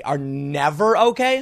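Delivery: "never okay" repeated slowly in disbelief; incredulous echo. Real, not acted. Host echoing the article's claim, incredulous and slow. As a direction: throw the words back, slow and doubting.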